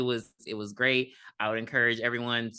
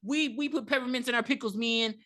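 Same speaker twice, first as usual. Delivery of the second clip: cynical cop voice; 7 semitones higher than usual. Retold or imitated. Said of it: "He's like".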